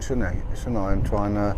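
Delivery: put-on low, half-hearted West Country accent; jokey attempt at a southwest accent; southwest English accent. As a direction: slip into a mock southwest English burr. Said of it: "he went a bit bloody southwest there".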